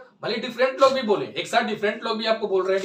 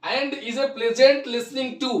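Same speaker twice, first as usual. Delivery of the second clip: very slow, word by word; slow dictation; much slower than usual. Shown as a demonstration. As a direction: dictate the line so students can copy it. Dictating definition to students. (धीमी गति से लिखवाना)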